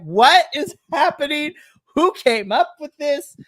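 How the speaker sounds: loud, high, baffled cry; baffled outburst. Retold or imitated. Fan reacting loudly to a wrestler's racy entrance, baffled. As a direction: react loudly like she can't believe it. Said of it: "I was like".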